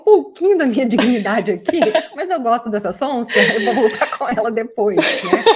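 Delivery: teasing impression of the boyfriend; mock boyfriend voice. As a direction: play the scheming boyfriend with a laugh. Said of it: "Ele fala".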